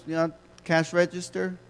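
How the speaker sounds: ordinary delivery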